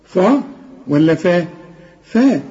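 فا said thin, then heavy, as a question; thin versus heavy ف. Shown as a demonstration. Teacher to student: which فا, thin or heavy. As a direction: contrast the two فا sounds. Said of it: "تقول لي فراغ".

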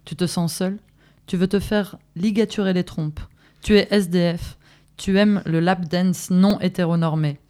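steady listing, each item short and firm; spoken-word protest reading; manifesto reading. Acted. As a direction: read the list like a rallying text. Third voice of the reading.

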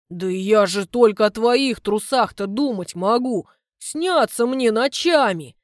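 loud, slow, fervent begging; a clumsy man pleading with his girlfriend, loud and earnest; pleading suitor. Acted. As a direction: protest devotion loudly. Suitor protesting his love.

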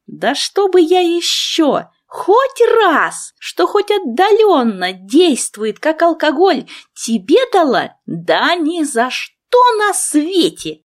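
a hint of a grumpy friend swearing off; muttering friend. A narrator's reading. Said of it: "пробормотала себе под нос".

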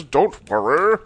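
loud, put-on rescuer's voice; heroic janitor. Janitor stepping in to save the boy, loud mock reassurance. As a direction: call it out in a character voice.

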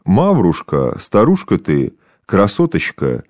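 lightly voiced tipsy old man, playful; playful drunk old man. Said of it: "Игриво мелет коснеющим языком".

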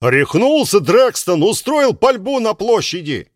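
crowd shout. Acted.

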